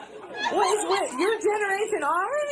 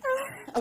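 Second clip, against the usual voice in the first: high, soft trailing ah; mock breathy ah; 11 semitones higher, 5 dB quieter than usual. Host imitating the guest's breathy word endings. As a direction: puff a little breath out. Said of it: "you're doing a thing where you're going".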